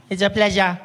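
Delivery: put-on polite nine-year-old on the phone; Isaac. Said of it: "He's nine years old".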